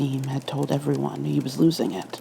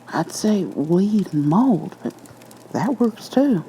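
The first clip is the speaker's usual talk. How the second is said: higher-pitched, uneasy storyteller voice; a spooked cop reliving it; officer telling his ghost story, rattled and higher; nervous officer Liu; 5 semitones higher, slower than usual. A narrator's reading. Liu voice again.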